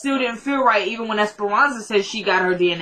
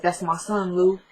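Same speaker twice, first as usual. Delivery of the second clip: crying; 4 dB quieter than usual. Retold or imitated. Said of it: "And she starts crying".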